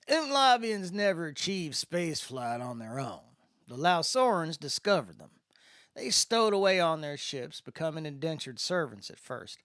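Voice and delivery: a lightly voiced easygoing spacer; a hint of the drawling guide filling in the new kid; Landon's voice. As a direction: explain it in Landon's laid-back voice. Landon's voice in the story.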